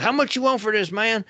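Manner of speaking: high, light voice of a passing buyer; a stranger casually asking the price; customer asking a price. Retold or imitated. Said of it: "this guy walks up and goes".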